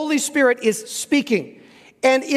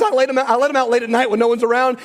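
lightly voiced, quick mock alter ego; a hint of a sly inner troublemaker, said fast; Bad Voddie; faster than usual. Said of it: "inside of him called Bad Voddie".

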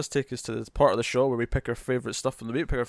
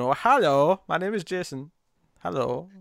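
lightly voiced goofy Jason greeting; a hint of an odd, halting Jason hello; silly Jason voice; 2 semitones higher than usual. Reading a comic character for the co-hosts, lightly odd voice. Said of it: "what is that voice that Jason has?".

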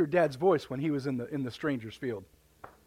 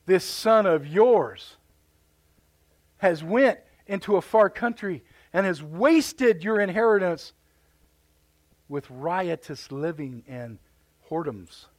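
put-on accusing older brother; slower than usual. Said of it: "Do you know what he did?".

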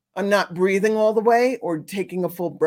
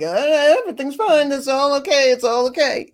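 higher, louder fake-bright reassurance; hammed-up everything's-fine act; mock cheerful denial; 6 semitones higher, 5 dB louder than usual. Someone stuffing their feelings, mock cheerful denial. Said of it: "pretending like".

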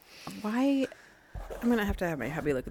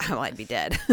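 laughing; 8 semitones lower than usual. Real, not acted. Laughing punchline.

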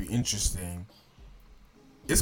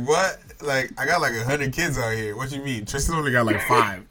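Jamaican dad impression; 3 semitones higher than usual. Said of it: "them be like".

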